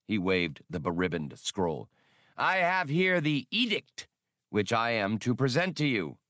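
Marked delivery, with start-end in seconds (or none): 2.3-6.2 higher, falsely jolly alien inspector; a nervous official faking good cheer, pitched up; forced jocularity. A narrator's reading. Keek voice continues.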